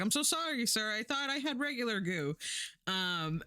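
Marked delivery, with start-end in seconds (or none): 0.0-2.4 lightly acted, higher-pitched apology; Seth Green. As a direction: plead innocence in a slightly raised voice. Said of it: "And Seth Green was like".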